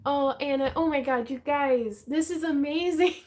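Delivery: excited. Real, not acted. Reacting to a viewer's kind comment.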